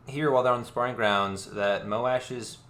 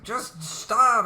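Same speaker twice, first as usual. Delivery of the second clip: high mock Kaladin; 13 semitones higher, 4 dB louder than usual. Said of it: "Kaladin's like".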